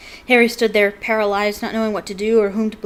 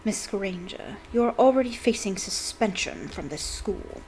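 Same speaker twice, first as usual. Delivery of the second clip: spat; 3 dB quieter than usual. Acted. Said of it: "Snape spat".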